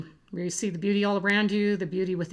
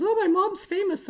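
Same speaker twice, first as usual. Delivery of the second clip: much higher, louder excited squeal; imitating a high-pitched voice; 13 semitones higher, 6 dB louder than usual. Youngest daughter telling everyone her mom is famous, in a high-pitched squeal. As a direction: mimic a thrilled little girl squealing. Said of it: "in that very high-pitched voice she was doing".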